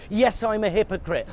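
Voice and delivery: ordinary talk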